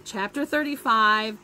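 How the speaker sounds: reading a story aloud to the class; lively read-aloud voice; story narration. A narrator's reading. Teacher reads novel to class.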